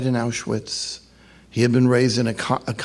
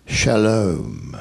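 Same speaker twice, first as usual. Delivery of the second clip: put-on drawn-out, lower Jewish-accented greeting; 5 semitones lower than usual. Rabbi's voice from behind at sunrise service, Jewish accent. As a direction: greet slowly and low with a light Jewish accent. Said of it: "with a Jewish accent".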